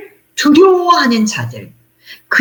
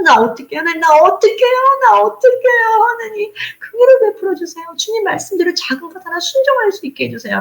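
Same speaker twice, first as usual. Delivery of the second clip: high, anguished plea to God; crying out in guilt at night, much higher; anguished prayer; 9 semitones higher than usual. Retold or imitated. Voicing tearful night prayer.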